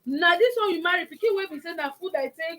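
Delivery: loud, high indignant protest; indignant retort. Retold or imitated. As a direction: push back, outraged and loud. Wife's indignant retort to in-law.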